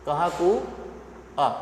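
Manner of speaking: कहाकुआ drawn out very slowly and softly; slow demo of कहाकुआ. Shown as a demonstration. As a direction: stretch कहाकुआ out, syllable by syllable. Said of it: "जब हम धीरे से बोलते हैं".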